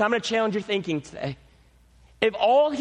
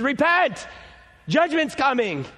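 raised, higher call to repent; prophet's call; 4 semitones higher than usual. Acted. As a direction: cry out a warning to the city. Prophet crying out to city.

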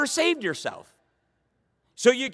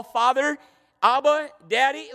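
pleading cry; 4 semitones higher, 4 dB louder than usual. Retold or imitated. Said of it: "pleading to heaven".

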